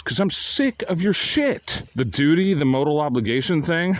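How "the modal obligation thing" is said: ordinary delivery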